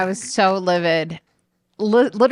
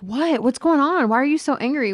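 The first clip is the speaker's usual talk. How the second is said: mock innocent questions, pitched up; clueless friend; 7 semitones higher than usual. Mocking her friend's innocent confusion, raised and wide-eyed. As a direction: play dumb, all innocence. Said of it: "And you were like".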